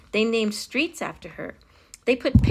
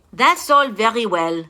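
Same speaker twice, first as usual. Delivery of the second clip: impatient king; 2 semitones higher, 7 dB louder than usual. A narrator's reading. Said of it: "the king said".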